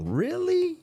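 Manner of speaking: sarcastic really. Real, not acted. Sarcastic disbelief.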